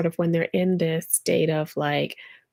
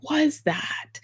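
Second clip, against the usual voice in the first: bewildered; 6 semitones higher, much slower than usual. Retold or imitated. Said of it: "and I'd be like".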